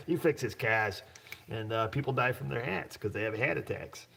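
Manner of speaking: playful imitation of a New England accent; Smitty. Host teasing Smitty's speech, mock New England accent. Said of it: "awesome accent".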